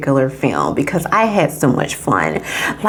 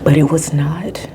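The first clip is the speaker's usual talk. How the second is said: whisper; 3 semitones lower than usual. Real, not acted. Disappointed hush.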